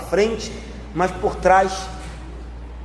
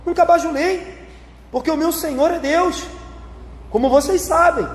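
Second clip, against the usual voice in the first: raised, insistent voice of the apostle Paul; Paul's earnest higher-pitched protest; voicing Paul; 8 semitones higher than usual. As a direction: speak up high as Paul defending himself. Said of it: "E aí Paulo diz".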